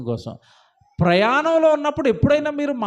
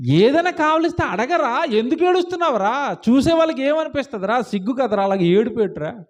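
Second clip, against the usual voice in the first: high-pitched mock scolding; parent scolding; 3 semitones higher than usual. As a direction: scold the crying child like an exasperated parent. Acting a parent scolding a child.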